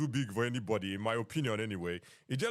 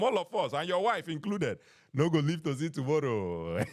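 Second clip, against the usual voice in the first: playful mock curse; 4 semitones higher than usual. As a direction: pile on the mock doom while laughing inside. Joking curse to a chat user.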